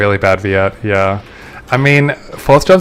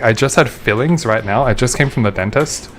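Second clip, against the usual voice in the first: numb lips. Real, not acted. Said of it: "my lips are a little numb".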